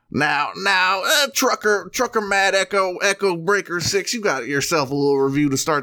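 high calling CB trucker. Acted. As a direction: hail a fellow trucker.

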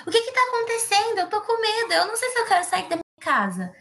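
high, scared cry out; frightened cry. Acted. The trapped ant cries out to her rescuers, high frightened cry. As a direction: panic as the boards float closer. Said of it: "E ela grita".

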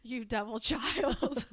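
slow, tearful mock wail through laughter; half-crying, half-laughing at the baby; hammed-up sob at her son. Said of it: "I was like".

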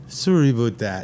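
hammed-up Canadian apology; playful Canadian "soory aboot"; mock Canadian accent. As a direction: round the vowels like a Canadian. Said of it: "everybody thinks I'm from Canada".

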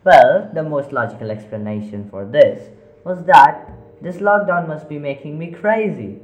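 talking to himself. Acted. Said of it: "started talking to himself".

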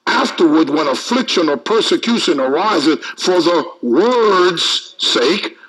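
measured, emphatic Bible reading; deliberate preacher's reading with weighted words; scripture reading. Acted. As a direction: read the verse out to a congregation. Reads scripture aloud to congregation.

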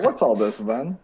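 put-on terrible British accent. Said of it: "terrible British accents".

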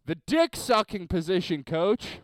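slightly high imitated yell; retold shout. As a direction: call it out, half-shouted. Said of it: "yells, shouts".

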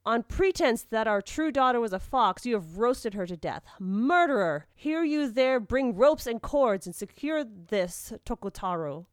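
loud, accusing outburst from grieving parents; outraged cry. A narrator's reading. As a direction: accuse the killer, then call out orders forcefully. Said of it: "seized Tokutaru by the collar and cried".

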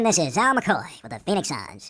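slow, drawn-out station identification; Al McCoy. Acted. Host breaks for a mock station ID, slow announcer. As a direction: announce it like a sportscaster, stretching the words. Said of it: "pause for station identification".

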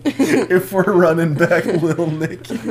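speaking through laughter; giggling words out, slowed; laughing. Real, not acted.

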